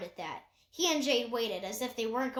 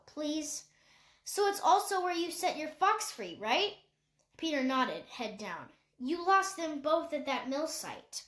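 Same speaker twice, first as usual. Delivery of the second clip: a hint of a young girl, pressing gently; girl putting it together aloud; lightly voiced girl; 5 semitones higher than usual. Jade working it out to Peter, a lightly higher girl voice.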